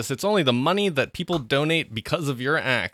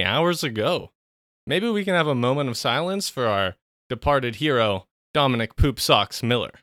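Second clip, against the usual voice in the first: solemn announcer breaking bad news; news bulletin. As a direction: read it like a grave news flash.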